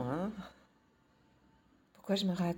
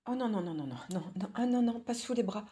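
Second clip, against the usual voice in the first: being tickled; 4 semitones higher, 3 dB louder than usual. Acted. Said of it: "je suis super chatouilleuse".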